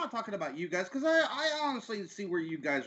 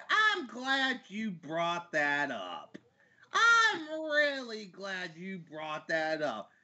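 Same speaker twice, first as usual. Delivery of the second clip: slow, drawn-out relish before a rant; slow and emphatic, winding up to let rip; deliberate buildup; 3 semitones lower, slower than usual. Real, not acted. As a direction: stretch the words out, savoring the setup. Gearing up for a rant.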